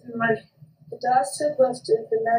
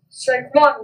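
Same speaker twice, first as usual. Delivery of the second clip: umpire's call; 7 dB louder than usual. Acted. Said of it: "the umpire said".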